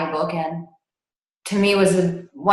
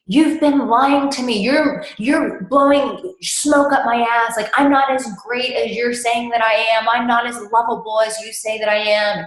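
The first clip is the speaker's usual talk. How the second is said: raised, higher mock outburst of a hurt client; retold angry yelling; 5 semitones higher, 3 dB louder than usual. Client yelling at his coach on the phone, imitated angry outburst. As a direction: play the client lashing out, a bit louder. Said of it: "my client starts yelling at me".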